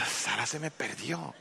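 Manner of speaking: low, soft, slow admission; subdued confession. Acted. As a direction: own up quietly to your wife. Sheepish confession to his wife. (confesión apagada, en voz baja)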